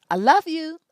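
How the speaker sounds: emphatic love. Real, not acted. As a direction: declare it out loud to the listeners. Reassuring non-black listeners.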